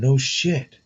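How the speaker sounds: slurred with tongue held; holding tongue with fingers. Real, not acted. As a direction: say it while pinching your tongue. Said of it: "I'm trying to talk and my tongue's in the way".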